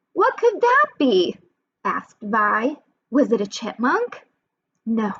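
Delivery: lively picture-book narration with character voices; storybook reading for kids. A narrator's reading. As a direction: read it aloud as if to a class of young children. Reads picture book to children.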